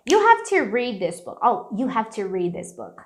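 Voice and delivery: "read this" run together fluently, d unreleased; fluent linking of "read this book"; linked, agile speech. Shown as a demonstration. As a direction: say it in one flow, joining "read" to "this". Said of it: "Isso traz muita agilidade pra fala".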